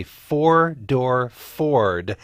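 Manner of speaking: slow imitated Southern drawl on "four-door Ford". Host mimicking the Southern drawl Vivien Leigh taught, slowly. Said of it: "taught the Southern drawl by Vivien Leigh".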